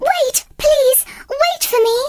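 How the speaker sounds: high call down the stairs. A narrator's reading. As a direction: call after them, hurrying.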